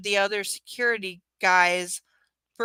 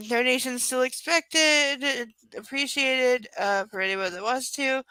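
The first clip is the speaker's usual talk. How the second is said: blocked nose, stuffy voice; 2 semitones higher than usual. Real, not acted. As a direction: speak through a stuffy cold nose. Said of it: "Sorry I sound so stuffy".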